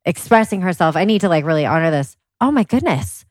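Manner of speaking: mock tender sympathy. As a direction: play up the earnest mom soothing her child. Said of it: "And I'm like".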